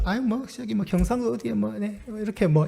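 shy away from naming the hometown; embarrassed mumble. Retold or imitated. Country-born man evasively naming his home village. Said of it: "이렇게 얘기한단 말이죠".

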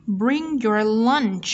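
slow, LUNCH ending in a clear CH; CH sound. Shown as a demonstration. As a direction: finish "lunch" on a released CH. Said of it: "C H là dấu hiệu của âm ch".

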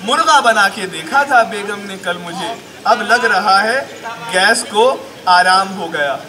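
comic Urdu poetry delivery; mushaira recitation. Acted. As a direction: recite slowly, then land the punchline firmly. Recites comic remedy verse.

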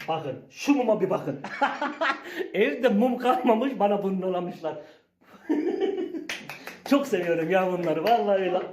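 can't stop laughing at the tiny cake. Real, not acted.

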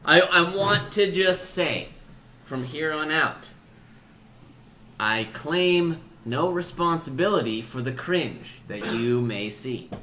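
measured announcement with weighty pauses; mock-formal disclaimer. Stoned host disclaiming responsibility for cringe, mock-formal announcement. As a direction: declare it solemnly, phrase by phrase.

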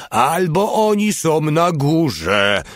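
high, drawn-out mild yell. A narrator's reading. Mały under fire locating the enemy, high yell. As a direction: stretch it out high, as if calling. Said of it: "darł się Mały".

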